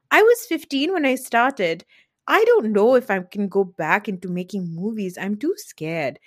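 lightly put-on actress accent; a hint of a scared film star's accent; Neelam. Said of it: "That's a good Neelam accent".

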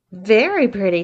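teasing. Acted. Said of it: "teased Beth".

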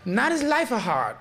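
high imitated Asian accent through laughter; mock Asian accent. Host insisting on finishing the quote, laughing, high mock Asian accent. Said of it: "I'm doing the accent".

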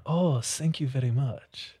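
jokey Asian accent demo; put-on Asian accent. Shown as a demonstration. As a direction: do a slow imitation Asian accent. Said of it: "to talk in an accent".

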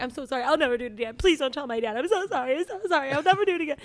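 retold frantic apology, building; tearful pleading. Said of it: "I cried and cried and cried".

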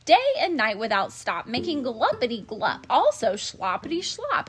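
snapping. Acted. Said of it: "snapped the Lorax".

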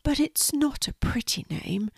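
high, soft, sorrowful little spider; small breath of a voice, downcast; Quincy, sad. Acted. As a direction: say it sadly as a tiny spider. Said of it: "said Quincy sadly".

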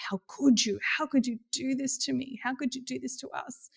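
mock inner yell. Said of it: "I'm yelling at him going".

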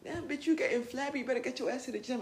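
fast, sassy scolding; nagging inner critic. Pretend. Inner critic nagging her about getting flabby, sassy. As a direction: roast yourself like a bossy friend. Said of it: "My inner critic is my motivation".

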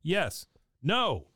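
high, loudened imitation of a reversal; Bill. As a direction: blurt each word alone as the character. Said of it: "He says".

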